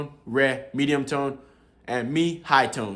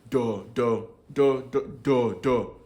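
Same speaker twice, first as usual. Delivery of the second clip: every "do" on a low falling tone; much slower than usual. Shown as a demonstration. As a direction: demonstrate "do" slowly, kept low. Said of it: "that's the low intonation".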